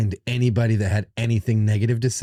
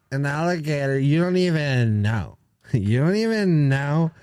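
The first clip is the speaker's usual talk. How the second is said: imitating a woman; 4 semitones higher than usual. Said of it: "when he's imitating women".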